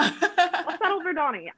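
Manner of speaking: slow, laughing through it. Real, not acted. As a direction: drag it out while laughing. Repeating her line, laughing.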